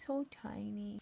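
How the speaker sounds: soft, breathy whisper; whispered coo over something small. Pretend. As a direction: whisper it tenderly. Cooing over drawing.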